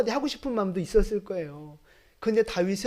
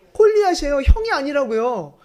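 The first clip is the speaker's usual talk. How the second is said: emphatic call; 4 semitones higher, 5 dB louder than usual. Real, not acted. Preacher names David's real enemy.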